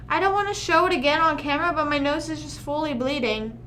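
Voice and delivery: talking through a nosebleed. Real, not acted. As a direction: speak while your nose bleeds. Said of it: "my nose is bleeding".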